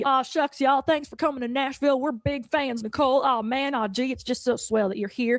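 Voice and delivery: lightly voiced aw-shucks Southern charmer; a hint of folksy, over-friendly welcome; super friendly singer. Star greeting Nicole in Nashville, lightly folksy and friendly. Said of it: "like, super friendly".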